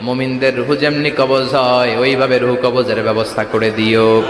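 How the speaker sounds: low, measured supplication; prayer. Real, not acted. Preacher asks Allah for a martyr's death, low prayerful plea.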